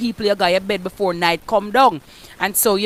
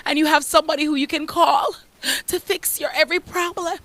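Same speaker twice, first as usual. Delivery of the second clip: mock damsel whimper; 4 semitones higher, 3 dB quieter than usual. Mocking a damsel in distress.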